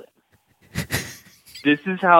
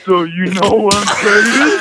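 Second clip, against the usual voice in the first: shouted; 3 semitones higher than usual. Acted. Jersey persona punchline.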